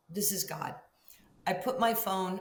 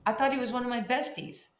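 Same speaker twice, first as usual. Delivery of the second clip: laughing; 6 semitones higher, 9 dB louder than usual. Real, not acted. Laughing about Kobe's friendships.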